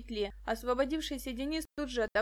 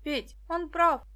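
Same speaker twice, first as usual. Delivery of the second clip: higher, loud, slow call; girl calling to her friend, loud and urgent; shout; 5 semitones higher, 7 dB louder, slower than usual. A narrator's reading. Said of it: "крикнула Даша".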